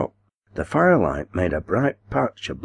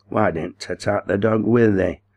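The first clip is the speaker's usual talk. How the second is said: jeering; 3 semitones higher than usual. Acted. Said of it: "jeered the boss".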